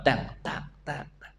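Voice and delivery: soft unvoiced "tang, tang" for footsteps; mimicking quiet footsteps for the congregation; footstep sounds. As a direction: tap out footsteps with the voice, hushed. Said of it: "langkah kakinya cuman".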